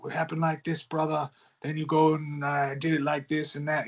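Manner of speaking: lightly voiced wrestler telling his story; a hint of a wrestler's casual storytelling voice; Jimmy. Ghostwriter imitating how Jimmy recounts his stories, lightly voiced wrestler. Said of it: "what happened maybe in Jimmy's case".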